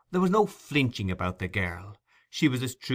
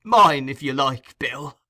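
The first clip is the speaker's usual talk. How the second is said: sly Fagin; 4 semitones higher, 8 dB louder, slower than usual. A narrator's reading. Fagin teasing Sikes.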